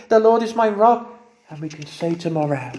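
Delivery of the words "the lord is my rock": louder, higher proclamation; raised joyful declaration. Shown as a demonstration. Preacher urging the church to say it, ringing out. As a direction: lift it up for everyone to hear. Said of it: "So we can say today".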